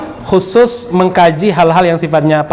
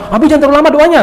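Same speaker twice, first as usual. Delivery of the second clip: higher, louder pleading wife's voice; wife's plea; 9 semitones higher, 4 dB louder, much faster than usual. Retold or imitated. Preacher quoting his wife's request, higher and louder. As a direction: gently urge him to cut the prayer short. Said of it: "katanya, ya".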